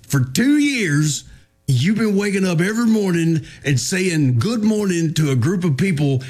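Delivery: incredulous wife. Retold or imitated. Wife getting it straight with her husband, incredulous. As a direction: lay out the absurdity as the retold wife. Retold wife challenging him in disbelief.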